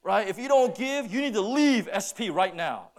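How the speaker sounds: hammed-up retelling of the rumour; distorted rumour. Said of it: "I didn't say that".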